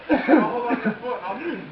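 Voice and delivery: laughing while talking. Real, not acted.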